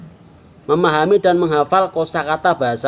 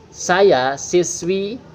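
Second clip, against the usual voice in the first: Saya siswi said very slowly; slow translation; 3 semitones higher, much slower than usual. Shown as a demonstration. Teacher translating slowly for pupils, very slow. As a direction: drag the words out gently. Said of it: "Paman akan baca".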